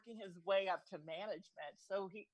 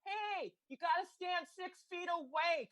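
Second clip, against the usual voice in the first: mock yell; 8 semitones higher than usual. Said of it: "she was just yelling at people".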